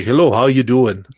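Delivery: loud, mock Minnesota phone greeting; stereotypical Minnesotan. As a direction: imitate a stereotypical Minnesotan caller. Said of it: "stereotypical Minnesotan".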